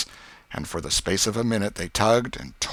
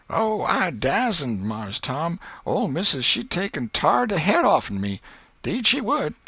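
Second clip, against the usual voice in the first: put-on young Jim, reluctant; 10 semitones higher, 4 dB louder than usual. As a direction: beg off the job nervously. Jim's voice again.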